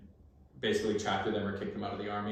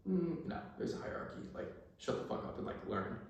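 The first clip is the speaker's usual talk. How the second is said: hushed inner scolding; 6 semitones higher, 11 dB quieter than usual. Retold or imitated.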